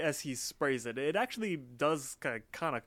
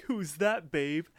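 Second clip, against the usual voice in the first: higher, louder retold demand; mock alarmed question; 5 semitones higher, 5 dB louder, slower than usual. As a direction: imitate a boyfriend caught off guard. Retold jealous question in dream.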